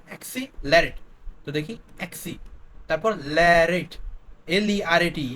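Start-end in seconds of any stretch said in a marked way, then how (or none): 3.4-3.9 ল্যারেট drawn out slowly as its own word; syllable split. Shown as a demonstration. Teacher breaking up the word for memory, slow split pronunciation. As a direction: sound out ল্যারেট slowly, la-rate. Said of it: "এটা কিভাবে মনে রাখবো আমরা".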